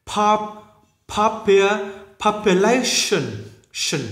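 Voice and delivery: "population" built up piece by piece, ending in "shin"; đuôi đọc shin. Shown as a demonstration. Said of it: "không đọc là shin này". ("population" tách dần, đuôi đọc "shin")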